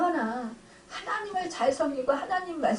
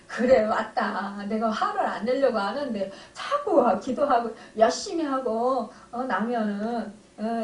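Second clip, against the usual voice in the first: sheepish laughing admission. Retold or imitated. Father admits his temper, retold.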